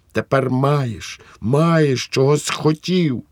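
wife blaming husband for their son in hysterical rage. Acted. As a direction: shriek the accusation, bitter. Wife's hysterical accusation.

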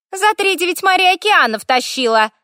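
high, creaky complaint of a little spirit; chattering fire elemental. A narrator's reading. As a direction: grumble shrilly in the creaky elemental voice. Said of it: "поддержала огненная стрекоталка". (высокий скрипучий стрёкот элементали)

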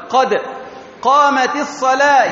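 قد set apart with echoing d, then قامت linked by an i; bounced dal, kasra ta. Shown as a demonstration. Teacher explaining the iqama, bounced قد and i after قامت. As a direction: pause after a bounced قد, join "qamati" to الصلاة. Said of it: "يكسر تاء قامت".

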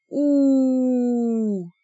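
a choked, pained moan through the teeth; strangled groan. Acted. Бер, waking after a blow, strangled groan. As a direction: groan as if waking with a split head. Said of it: "сдавленно простонал Бер".

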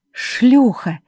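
furious screaming. A narrator's reading. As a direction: scream the insult three times, rising in fury. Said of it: "заорала Жервеза, вся дрожа от бешенства".

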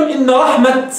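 رحمة stopped on a t; pausal ta. Shown as a demonstration. Teacher shows how some reciters stop, pausal t. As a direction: recite إن رحمة halting on t, not h. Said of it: "بعض قراء السبعة يقفون".

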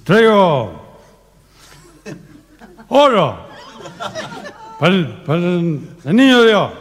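put-on nervous kid. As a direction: stumble through it with stage fright. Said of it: "se puso un poco nervioso".

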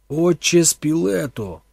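loud, slow call, drawn out. A narrator's reading. Thorn calls loudly to the frozen priest. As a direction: call the name loudly and slowly. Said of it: "голосно й повільно промовив він".

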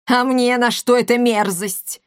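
indignant, disgusted matron. Acted. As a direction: scoff at the nasty toad. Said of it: "возмутилась Коптильда". (возмущённо)

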